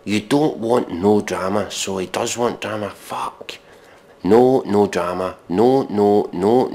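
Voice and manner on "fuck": breathed-out fuck; whispered curse. Real, not acted. Reviewer breathes out a curse, defeated. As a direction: exhale it unvoiced.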